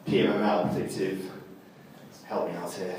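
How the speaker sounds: tired, fumbling for the words; jet lagged. Real, not acted. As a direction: jet lagged and groping for a term. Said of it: "I'm jet lagged".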